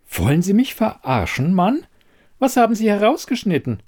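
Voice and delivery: high-pitched, indignant demand; indignant confrontation. Acted. Elida confronting the quizmaster over missing footage, indignant. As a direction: accuse him, pitch climbing, speeding up at the end.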